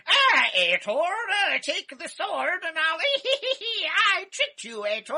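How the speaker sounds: high, loud cackling troll. Retold or imitated. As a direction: play a tricky goblin with a laugh. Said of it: "he's doing a troll voice".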